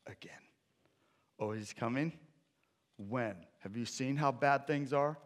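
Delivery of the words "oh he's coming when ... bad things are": cynical grumbler. Retold or imitated. Preacher voicing a cynic complaining at Advent, building to a rant. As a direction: work up into a whiny tantrum. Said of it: "people are wondering".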